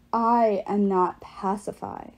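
slow, lightly voiced possessing giant; a hint of a deep, alien voice; possessed deep voice. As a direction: let the giant speak through her, slow. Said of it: "spoke in a voice that wasn't hers, the words as deep as a bass guitar".

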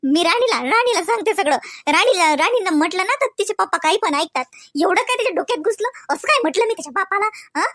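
an upset wife airing her grievances; indignant wife. Acted. A wife venting to herself about her husband's father, indignant.

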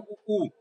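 उ sounded with rounded lips; rounded-lip vowel demo. Shown as a demonstration. Teacher demonstrates where the vowel is made, उ with lips rounded. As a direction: say उ through rounded, pursed lips. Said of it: "ओठकार कर रहा है ना".

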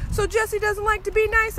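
imitating neighbor. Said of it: "And he was like".

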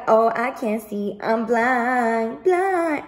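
slow, sarcastic mock of playing dumb. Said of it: "Act like".

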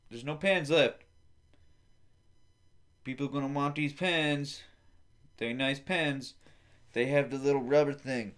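mock yelling. Yelling at the funeral director, mock shout. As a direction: yell up at the director playfully. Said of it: "and screamed to the funeral director".

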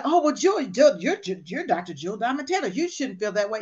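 mock scolding self-talk.

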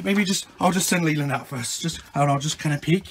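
low, soft, uncertain murmur; hushed hesitation. Acted. Dad hiding in closet plans a peek, hushed. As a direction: think aloud very quietly.

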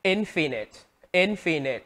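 infinite with IN stressed; stress on first syllable. Shown as a demonstration. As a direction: hit the opening syllable of infinite. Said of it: "nhấn vào âm đầu tiên".

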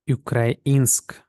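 "Українськ" with the stress on "і". Shown as a demonstration. Teacher models Norwegian word, "Українськ" stressed on "і". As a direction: lean on the "і" in "Українськ". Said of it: "Тут у нас наголос на і".

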